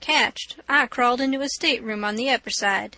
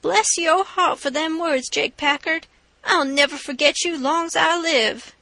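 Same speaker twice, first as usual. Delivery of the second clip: sort of blubbering; 5 semitones higher, 3 dB louder than usual. Acted. Bound man thanking Jake Packard, mildly blubbering. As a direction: gush thanks on the verge of tears. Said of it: "sort of blubbering".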